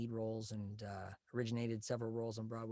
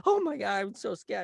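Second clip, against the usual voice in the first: scared nerd; 8 semitones higher, 8 dB louder than usual. Retold or imitated. Nervous nerd character bit.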